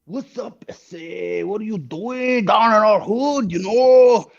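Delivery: high, drawled LA Latino street talk; LA Latino accent. Retold or imitated. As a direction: hassle him like an LA homeboy. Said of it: "There's, like, the L A".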